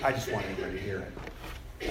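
quick, low, hushed aside to the room; sly aside. Retold or imitated. Preacher confessing a stolen joke, quick low aside. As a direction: slip it in fast and low, half-joking.

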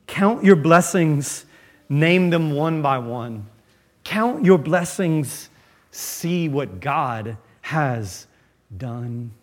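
slow, measured hymn lines; quoting a hymn. Retold or imitated. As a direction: recite the old hymn gently and slowly. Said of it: "Take the advice of the old hymn".

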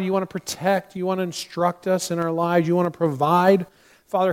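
earnest prayer in measured phrases with pauses; spoken prayer. Real, not acted. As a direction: address God in a steady, reverent prayer. Closes the sermon in prayer.

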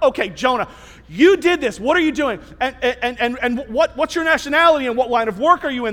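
mildly accusing, piling up questions; interrogating. Acted. Crew questioning Jonah after the lots, interrogating. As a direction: press the suspect, stumbling into quick questions. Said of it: "they're interrogating him".

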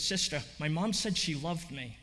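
understated tearful telling. Retold or imitated. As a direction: say it through mild tears. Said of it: "She's in tears".

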